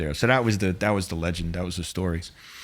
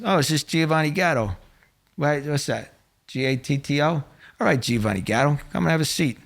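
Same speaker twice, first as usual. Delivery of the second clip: mock-friendly mobster; 5 semitones higher than usual. Boss mocking the name, retold.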